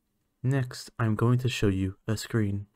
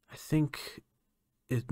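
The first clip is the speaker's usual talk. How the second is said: whispered aside; 5 semitones higher, 5 dB quieter than usual. Acted. Scientist admits touching was a mistake.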